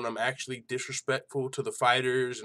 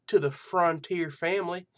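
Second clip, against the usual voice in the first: higher, hammed-up hillbilly host voice; hillbilly show host; 3 semitones higher than usual. Host opening his joke hillbilly MMA show, hammed-up hillbilly voice. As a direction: play a corny country MMA show host. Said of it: "I'll just use that voice the whole time".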